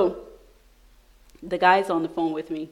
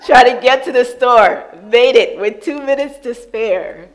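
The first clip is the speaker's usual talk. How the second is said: loud, high, laughing retelling; breathless excitement; 6 semitones higher, 10 dB louder than usual. Real, not acted. Telling the church about her mall dash, loud and excited. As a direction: burst out with the frantic rush.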